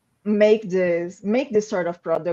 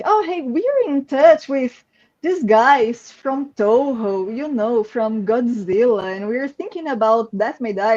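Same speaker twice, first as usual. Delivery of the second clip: excited retelling; 4 semitones higher than usual. Retold or imitated. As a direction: relay big news with mock-casual excitement. Retelling how the team got the news.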